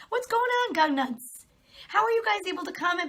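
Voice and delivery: high, taunting call to the commenters; mocking callout. Real, not acted. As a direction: sing it out like a jeer.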